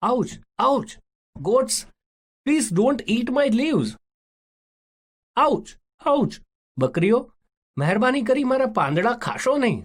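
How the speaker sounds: high, pained pleading to the goats; crying out in pain. Acted. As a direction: yelp and beg the goats to stop. Goats eat the tree's leaves.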